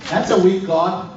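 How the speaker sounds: lightly acted challenge, rising in pitch; mild mock disbelief; incredulous objector. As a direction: act out a listener objecting. Acts objecting listener challenging him.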